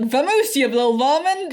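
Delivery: a touch of cowboy bluster; imitated cowboy speak. Imitating Data ordering his cat off the desk, cowboy accent. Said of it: "starting to talk in cowboy speak".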